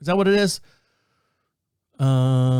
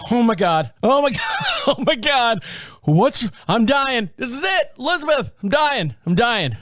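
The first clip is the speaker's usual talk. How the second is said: higher, hammed-up dying panic; mock panic; 8 semitones higher than usual. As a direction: play the melodramatic goner. Panicked by weird heartbeat news.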